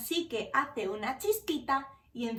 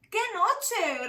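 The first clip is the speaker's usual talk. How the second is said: grumbling mole; 6 semitones higher, 4 dB louder than usual. Acted. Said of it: "rezonga Topo".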